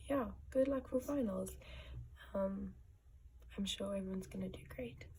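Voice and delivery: gruff, just-woke-up voice. Real, not acted. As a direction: speak with a rough morning throat. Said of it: "if my voice is a bit gruff, then that's why".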